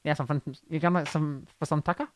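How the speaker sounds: put-on Aussie slang voice; Australian accent. Shown as a demonstration. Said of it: "Australian one".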